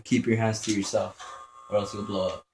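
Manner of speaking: lightly voiced teacher, said at normal volume; teacher's warning. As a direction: quote the teacher almost plainly. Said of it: "That's why teachers used to tell you".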